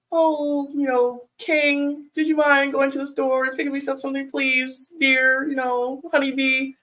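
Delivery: butter him up with playful pet names; jokingly sweet request. Retold or imitated. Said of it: "like, a joking manner".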